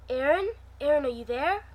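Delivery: calling out. Acted. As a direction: call out to an unseen colleague. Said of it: "I called".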